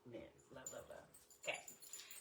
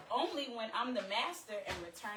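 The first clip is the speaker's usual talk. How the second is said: shouted, raised dominant comeback; playful shouted bravado; loud boast; 6 semitones higher, 4 dB louder than usual. Retold or imitated. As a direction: throw the line out with bravado. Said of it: "I said".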